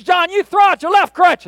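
loud, high mock revivalist shout; faith healer shout. Faith healer commanding John behind screen, mock high shout. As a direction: bellow the command like a stage healer. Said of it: "a faith healer that stands up".

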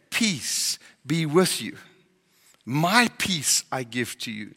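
tender reassurance. Acted. Quoting Jesus' words of peace.

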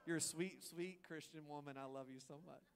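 butter her up, overly sweet; mock sweet to wife. Husband sweetly flattering his wife, mock tender. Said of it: "you look at your wife, you're like".

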